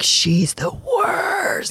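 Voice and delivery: very high, very slow mock kid whine; kids teasing. Kids mocking their mom on a podcast, very high and drawn out. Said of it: "my kids would be like".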